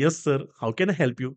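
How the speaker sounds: lightly voiced deferential hostess; very polite. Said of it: "अगदी अदबीने त्याला विचारते". (अदबीने, सावकाश विचारणारी हवाई सुंदरी)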